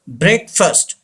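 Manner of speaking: "breakfast" said as BREK-fust; correct pronunciation. Shown as a demonstration. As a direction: say "breakfast" with a short schwa in -fast. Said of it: "Say this word". ("breakfast" का सही उच्चारण, "ब्रेकफ़स्ट")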